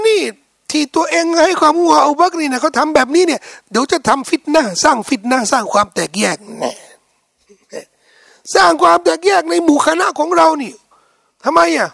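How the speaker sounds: rising, outraged complaint ending in a shout; indignant Meccan complaint. Retold or imitated. Meccan elders angrily shouting their complaint. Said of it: "บอกว่า".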